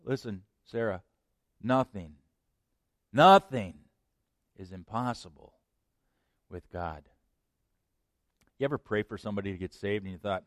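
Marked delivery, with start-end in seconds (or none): 0.0-7.1 gentle. Acted. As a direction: let it sink in gently. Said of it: "God very gently".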